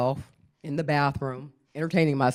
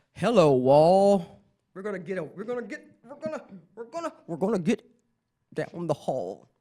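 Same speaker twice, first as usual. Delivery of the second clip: put-on drunk talk; 3 semitones higher, faster than usual. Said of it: "five sheets ... to the wind".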